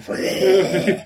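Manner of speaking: mock vomiting noise; comic retch; imitated retching. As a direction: imitate throwing up with a loud heave. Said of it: "throwing up everywhere, like, fountains of blood".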